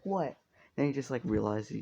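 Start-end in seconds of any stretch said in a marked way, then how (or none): 0.0-0.4 retold yell. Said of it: "he fucking starts yelling".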